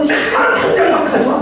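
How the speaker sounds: high-pitched acted telling-off; mock angry scolding. Parent scolding the child over the payment, mock angry. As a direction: play a parent demanding it at once. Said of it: "화가 나죠".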